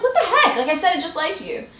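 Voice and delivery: high, laughing mock protest. She protests to her cousins, high and laughing.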